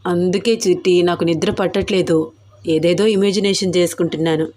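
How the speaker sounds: mildly lovesick, low-voiced admission; tender confession. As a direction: confide in her, pitched slightly down. Husband confides longing to his wife.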